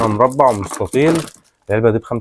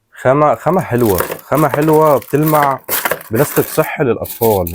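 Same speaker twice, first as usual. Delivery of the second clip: drawn-out, raised enthusiastic praise; excited; 4 semitones higher, slower than usual. Real, not acted. Praising product quality to buyers.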